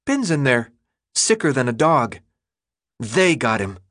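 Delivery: put-on a light touch of a young boy's voice; high childlike voice. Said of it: "His voice still carried the high pitch of childhood".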